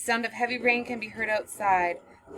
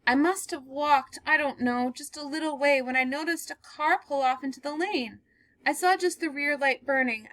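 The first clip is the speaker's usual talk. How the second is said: higher voice, trying to steady herself; shaken young woman; 6 semitones higher than usual. Acted. Girl recounting her night to the stranger, shaken. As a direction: pull yourself together and tell it.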